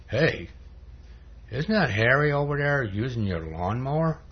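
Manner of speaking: sly needling devil, stretched swooping tune; devil's voice. Acted. Devil goading the Pink Panther about his lawnmower, devil's voice. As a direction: needle them with exaggerated rising questions. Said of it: "the devil, and the voice says".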